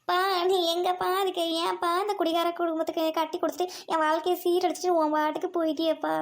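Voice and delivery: hammed-up wail of woe; wailing lament. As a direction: lament to an absent father. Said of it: "அங்க என்ன நின்னு கத்திட்டு இருக்க".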